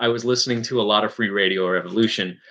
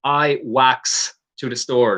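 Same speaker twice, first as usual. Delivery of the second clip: slow Newfie dialect demo on "I walks to the store"; measured Newfoundland accent example; slower than usual. Shown as a demonstration. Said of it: "For me, it's".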